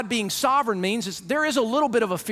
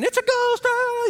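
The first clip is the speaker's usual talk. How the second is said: mock scream; 14 semitones higher, slower than usual. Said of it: "they were screaming".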